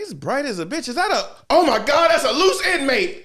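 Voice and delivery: high, loud, comic disbelief; mock shocked outburst. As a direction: squeal it like you just spotted an escaped convict. Hokage shocked seeing orange Naruto.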